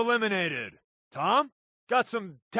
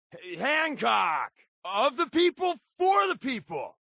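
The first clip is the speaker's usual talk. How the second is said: cheering shout; 3 semitones higher than usual. Real, not acted. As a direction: rally chant for the mayor. Crowd cheering for Hancock.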